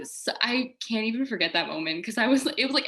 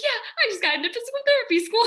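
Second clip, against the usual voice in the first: bursting with news; 4 dB louder, much faster than usual. Retold or imitated. Telling a stranger her news.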